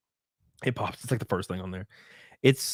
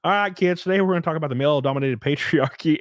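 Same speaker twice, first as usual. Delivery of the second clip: teacher voice; 5 semitones higher, 3 dB louder, faster than usual. Retold or imitated. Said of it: "she's like".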